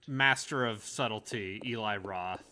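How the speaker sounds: dry, understated sarcasm; sarcastic. Real, not acted. Friend mocking a horror director to co-players, understated sarcasm. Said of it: "That's sarcasm".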